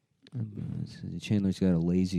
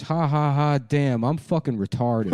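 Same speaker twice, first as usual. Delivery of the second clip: mock laugh; 7 semitones higher, 6 dB louder than usual. Joey voiced laughing at himself.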